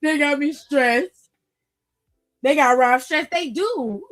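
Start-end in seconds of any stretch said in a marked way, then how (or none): 0.0-1.3 tired Rob. Retold or imitated. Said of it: "He said".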